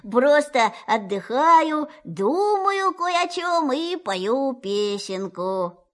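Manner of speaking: forced cheer. Acted. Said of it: "стараясь говорить весёлым голосом".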